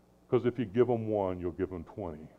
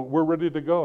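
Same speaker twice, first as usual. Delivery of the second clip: put-on high, louder kids ready to leave; eager kids; 7 semitones higher, 8 dB louder than usual. Sons telling dad they are ready to go. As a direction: announce it like eager boys at the door. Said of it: "they'd go".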